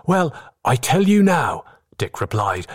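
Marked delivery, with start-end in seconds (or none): 0.1-1.6 put-on high-pitched young seaman, being won over; eager young sailor. A narrator's reading. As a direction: answer the older pirate eagerly, pitched up.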